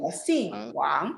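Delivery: each syllable stretched out, final one rising; slow model reading. Shown as a demonstration. Teacher repeating a Mandarin phrase for students, slow model reading. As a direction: say it slowly for learners to repeat.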